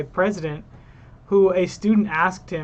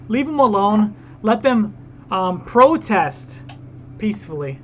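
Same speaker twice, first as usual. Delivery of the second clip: sarcastic mock plea; 2 semitones higher than usual. Commentator parodying defenders of rioters, sarcastic mock plea. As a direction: overplay the plea, stretching the last word. Mocking those who excused rioters.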